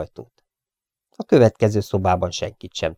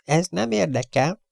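high, curt brush-off; loud rebuff; 10 semitones higher than usual. Acted. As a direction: snap him away. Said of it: "felelte Chiefen hangosan". (hangos, magas elutasítás)

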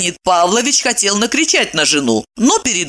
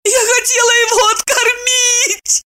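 much higher, shouting through tears; high crying woman's shout; howling sob. A narrator's reading. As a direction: defend herself while wailing. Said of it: "не прекращая рёва".

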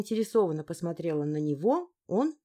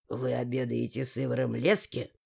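a hint of a rude stranger; dry, rough voice; 8 semitones lower than usual. A narrator's reading. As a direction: lower male voice, dry and grating. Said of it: "сухим, царапающим слух голосом грубо вопросил". (сухой царапающий голос)

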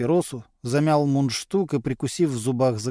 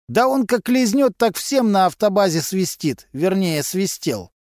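higher, rough street voice of a petty crook; a sly garage lowlife gossiping to cops; Vasily, a gruff mechanic; 6 semitones higher than usual. A narrator's reading. Suspect gossiping to detectives, in a raised streetwise voice.

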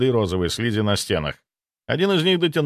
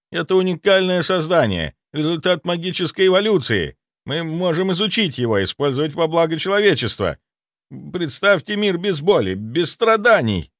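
fanatical zealot; 6 semitones higher than usual. A narrator's reading. Zaitsev selling his miracle creature with fanatical zeal. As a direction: preach his discovery with fanatic fire. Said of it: "в глазах появился фанатичный блеск".

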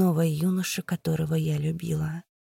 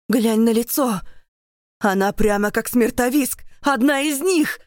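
loud, high frightened cry; horrified shout; 5 semitones higher, 5 dB louder than usual. Acted. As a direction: soldiers shrieking at her face. Soldiers recoil in horror.

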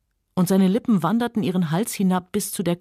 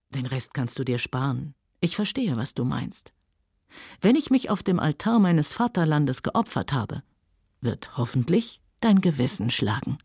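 low mocking man; 4 semitones lower than usual. Rhett answers her curse mockingly.

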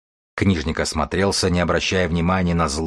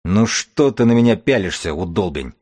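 shout. Acted. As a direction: yell at his silent stare. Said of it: "крикнул вождь".

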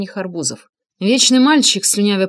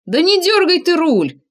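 shouting; 10 semitones higher, 5 dB louder than usual. A narrator's reading. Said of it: "крикнул я".

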